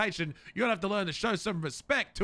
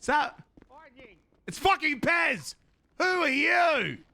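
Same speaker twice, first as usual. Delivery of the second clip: angry; 5 semitones higher, slower than usual. Acted. Chief angry at applicant.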